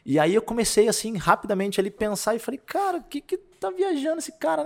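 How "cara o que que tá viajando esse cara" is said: very high, incredulous put-on voice; mock disbelief. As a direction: think it aloud in a high, baffled pitch. Reconta seu pensamento de espanto. (incredulidade encenada, voz bem aguda)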